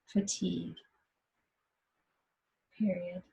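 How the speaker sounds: unhurried meditation guide, long pauses between phrases; guided meditation. Acted. Teacher guiding meditators to rest in what's happening, guided meditation. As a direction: guide them gently into noticing, leaving long silences.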